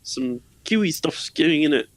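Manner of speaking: put-on a weak New Zealand accent; bad Kiwi accent. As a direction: try a Kiwi accent badly. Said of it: "that's a bad Kiwi accent".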